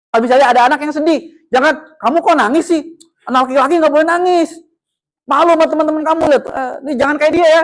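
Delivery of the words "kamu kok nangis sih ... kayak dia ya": slightly raised shaming tone; mock scolding. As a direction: imitate telling off a crying child. Acted adult shaming a crying child.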